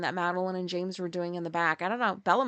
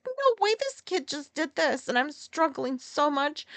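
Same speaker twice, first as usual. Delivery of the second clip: voicing James; 6 semitones higher than usual. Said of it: "It's like".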